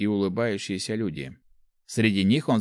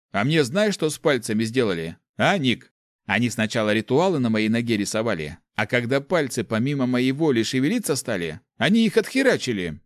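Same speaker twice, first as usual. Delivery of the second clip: higher, louder aggrieved peasant; indignant big man; 3 semitones higher, 3 dB louder than usual. Acted. Big fellow complaining to Nick, loud and indignant.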